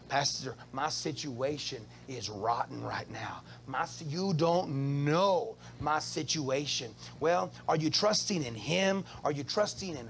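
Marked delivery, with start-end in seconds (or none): 0.1-6.9 complaining congregant. Retold or imitated. Congregant complaining, voiced by pastor.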